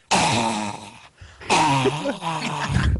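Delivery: mock noise of a sore loser, "ah"; repeated exaggerated "ah" in imitation; Naniwa. Showing children the gif of a player refusing handshakes, mock groaning. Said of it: "it's Naniwa going".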